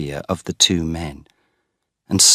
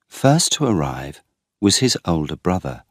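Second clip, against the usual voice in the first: ordinary delivery, nothing marked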